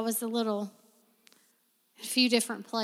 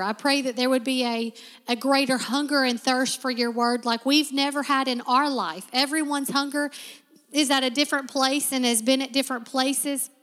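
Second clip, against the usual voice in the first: fervent prayer building louder; congregational prayer; 4 dB louder than usual. Acted. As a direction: pray over the room with growing fervour.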